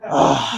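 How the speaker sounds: mock heavy "ugh"; imitated grunt. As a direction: groan like someone just done eating. Retelling Tank done eating.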